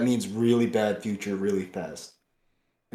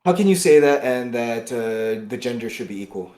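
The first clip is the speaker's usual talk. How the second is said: angry question; 5 dB louder than usual. Real, not acted. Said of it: "how mad I am right now".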